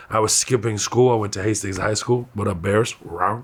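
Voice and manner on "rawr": low, soft mock bear roar; half-hearted bear growl. Shown as a demonstration. Comic showing off his school mascot, half-hearted bear growl. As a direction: give a weak little bear growl. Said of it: "give me a better bear than that".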